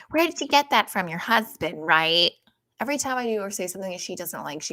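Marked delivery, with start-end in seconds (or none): 0.1-2.3 mother voice. Retold or imitated. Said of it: "My mother would say".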